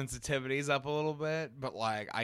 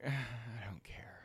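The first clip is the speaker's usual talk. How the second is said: whispered; 9 dB quieter than usual. Real, not acted. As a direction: sigh then whisper it. Sigh, whispered aside.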